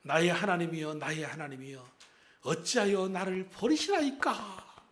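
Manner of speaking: Jesus's lament. Retold or imitated. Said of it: "십자가에서 뭐라고 그러셨어요?".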